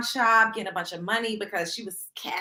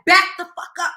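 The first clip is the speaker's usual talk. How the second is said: mock shout, higher and louder; firm demand; 5 semitones higher, 7 dB louder than usual. Shown as a demonstration. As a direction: put him in his place, hard. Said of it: "Sometimes you gotta be like".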